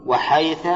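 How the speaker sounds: وحيث with an open a on the last sound; final fatha on حيث. Shown as a demonstration. Teacher lists the dialect forms of the word, ending in a. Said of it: "بتثليث الثاء".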